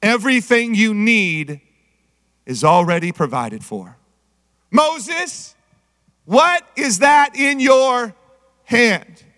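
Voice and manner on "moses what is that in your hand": slow, high, drawn-out calling; God calling Moses. Retold or imitated. God asking Moses about his staff, slow call. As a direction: call out to Moses slowly and gently. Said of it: "God speaking to Moses".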